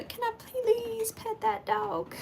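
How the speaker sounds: very high, slow, drawn-out country twang; hammed-up country accent meme. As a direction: stretch every word in a squeaky country drawl. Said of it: "that little, uh, country accent".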